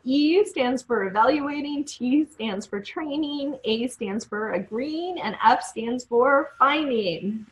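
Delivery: list in reverse order. Shown as a demonstration. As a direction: spell the formula from the last letter back. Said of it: "Now we're gonna say it backwards".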